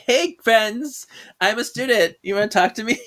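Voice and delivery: high, fake-chummy student act; Phoebe. Poses as student among students, overly friendly.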